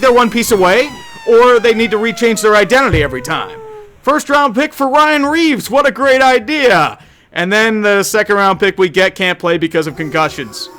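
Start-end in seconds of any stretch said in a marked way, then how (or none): 4.0-7.0 sarcastic. Acted. Mocking the team's trade.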